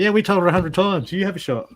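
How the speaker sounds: high, exasperated guides answering; spirit guides voice. Retold or imitated. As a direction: sound like a guide who has said it many times. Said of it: "your guides will look at the angels and go".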